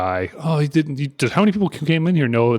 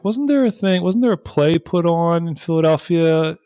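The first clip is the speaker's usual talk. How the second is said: imitating ranger; 5 semitones higher, slower than usual. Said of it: "She's like".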